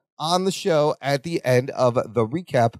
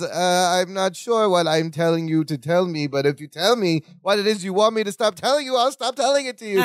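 mock exasperation climbing higher as it goes; exasperated and confused; 3 semitones higher than usual. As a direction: imitate a muddled, fed-up protest, pitch rising toward the end. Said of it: "All exasperated and confused".

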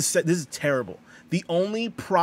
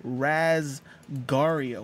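drawn out; much slower than usual. Shown as a demonstration. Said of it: "What does Razgario mean?".

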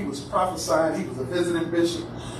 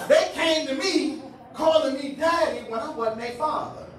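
preaching; 8 semitones higher than usual. Real, not acted. Preaches the lesson.

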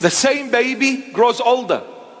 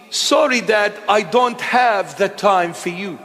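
dismissive shout. Retold or imitated. Grown child shouting off the father, dismissive shout.

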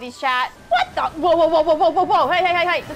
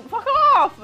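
angry shout; 8 semitones higher, 4 dB louder than usual. Real, not acted. Enemy attacks in game.

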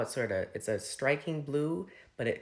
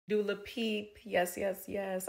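playful squeal; 9 semitones higher than usual. Acted. Playful name mangle and cheer.

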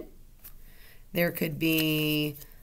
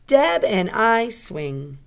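loud, slow telling sentence, "swing" coming down; statement intonation; 4 semitones higher, 6 dB louder, much slower than usual. Shown as a demonstration. Teacher answers what the sentence tells us, firm statement. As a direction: declare it word by word, settling on "swing". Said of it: "It is just a telling sentence".

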